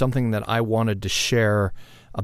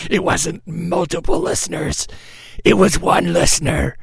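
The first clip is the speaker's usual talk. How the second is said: higher taunting inner critic; higher, then louder; voice of shame; 8 semitones higher, 4 dB louder than usual. Retold or imitated. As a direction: jeer at yourself. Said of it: "that voice in my head of shame or condemnation".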